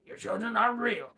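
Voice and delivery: a corrected take of the line; lightly voiced Strange; a hint of Cumberbatch's Strange; attempted Doctor Strange. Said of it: "I can't do, um, Benedict Cumberbatch".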